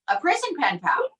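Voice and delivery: high, rising disbelief; incredulous echo. Real, not acted. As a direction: repeat it back, amazed. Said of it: "echoes in disbelief".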